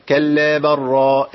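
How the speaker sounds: slow chant, برا with a doubled r and no pause; merged l into r. Shown as a demonstration. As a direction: glide from the b straight into a long rolled r in برا. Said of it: "إدغام إيه؟". (تلاوة بإدغام اللام في الراء في برا)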